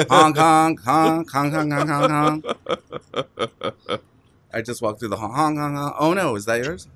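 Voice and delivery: playful honking clown voice; silly clown. Pretend. Clowning honk noises.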